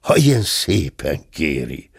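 slow, obliging reply with a smile; innkeeper's amused courtesy; smiling compliance. Acted. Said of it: "mosolygott a vendéglős".

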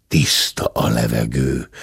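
very low, cautious voice; deep bear voice; older bear. A narrator's reading. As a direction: report it low, like a big bear. Gentleman bear speaks.

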